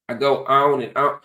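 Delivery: lightly Southern-tinged rap quote; a rapper. Retold or imitated. Pointing out the Southern sound in West Coast rap, lightly accented quote. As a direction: quote the rapper with a touch of Southern. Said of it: "When you listen to a rapper".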